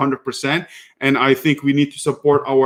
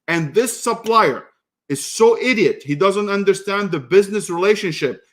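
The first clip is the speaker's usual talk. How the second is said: higher-pitched exasperated rant about the supplier; indignant complaint, voice raised in pitch; heated rant; 4 semitones higher than usual. Real, not acted. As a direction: vent your frustration, pitched up. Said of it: "ranting about supplier".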